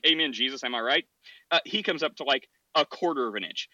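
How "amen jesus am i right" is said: lightly voiced cheery churchgoer, confident; a hint of a simple believer, pleased with himself; dumb churchgoer. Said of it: "who's just like".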